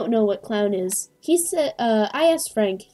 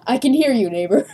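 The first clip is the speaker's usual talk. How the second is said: puppet voice; 7 dB louder than usual. Acted. Voicing game character reply.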